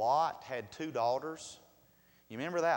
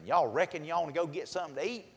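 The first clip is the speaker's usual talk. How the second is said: mountain drawl demo; 4 semitones higher, 4 dB louder, faster than usual. Shown as a demonstration. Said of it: "That's a mountain term".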